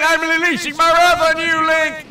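high, drawn-out booming threat; wrathful proclamation. Pretend. Storm power turns on Link for angering it, wrathful proclamation.

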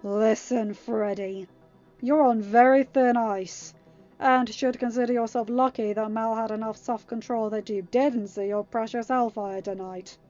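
loud, forceful interrogation; snarled warning. A narrator's reading. Uma interrogating the captive, snarled. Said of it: "Uma snarled".

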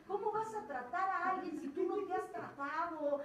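loud, harsh self-reproach; self-scolding rant. Retold or imitated. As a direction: tear into yourself, loud. Se regaña a sí misma. (regañándose a sí misma con furia)

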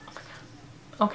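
slow breathy whisper of awe; awed whisper. Real, not acted. Staring at a beautiful cover, slow awed whisper. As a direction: let it slip out slowly under your breath.

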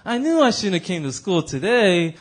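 slow, regretful cartoon kid impression; lightly mock a schoolboy's drawn-out complaint; Arnold. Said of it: "Arnold goes".

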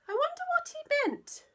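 high whispered aside; mother's baffled whisper; puzzled whisper. Acted. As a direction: wonder aloud in a hushed voice.

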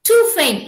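light "to", then stressed "faint"; teacher tapping out "to faint" as one foot; iambic stress demonstration. Shown as a demonstration. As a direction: put the beat on "faint". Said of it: "like that".

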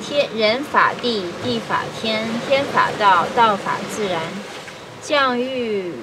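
measured reading in short, paused phrases; formal Mandarin read-aloud with falling phrase ends; classical Chinese recitation. Acted. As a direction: recite an ancient text line by line.

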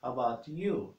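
"you" stretched out with a rise and fall; stress on YOU. Shown as a demonstration. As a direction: lean on "you" to ask it back. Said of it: "You emphasize "you".

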